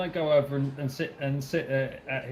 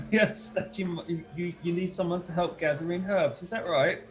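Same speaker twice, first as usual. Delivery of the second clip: character voice; 5 semitones higher than usual. Acted. Player voices character to NPC.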